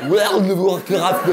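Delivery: put-on "World of Warcraft" with a heavy French accent, slow, a shouted laugh; exaggerated French accent. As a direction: ham up a French person mangling "World of Warcraft". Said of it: "c'est très dur". (accent français exagéré sur « World of Warcraft », en riant)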